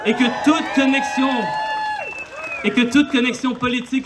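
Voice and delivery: measured, formal proclamation; solemn declaration. Acted. Patriot reading the independence declaration to the people, solemn proclamation. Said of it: "en avaient fait une déclaration".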